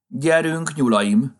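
high, ringing command to the troop. A narrator's reading. Rabbit leading the others out, commanding call. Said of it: "vezényelte".

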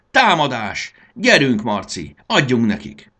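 loud, rallying shouts; rally your partner into the attack; battle cry. A narrator's reading. Battle cry urging each other on. (hangos, lelkesítő csatakiáltás)

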